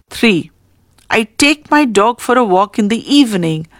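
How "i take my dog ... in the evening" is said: "my dog" stressed as a unit. Shown as a demonstration. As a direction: put the weight on "my dog". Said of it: "The highlighted words are my dog".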